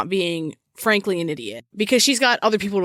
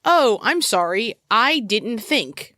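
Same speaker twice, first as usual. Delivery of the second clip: drawn-out, higher fake sorry; sarcastically apologetic, raised pitch; mock apology; 4 semitones higher, slower than usual. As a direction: play a hollow excuse, stretching the words. Mimicking a careless parent's excuse.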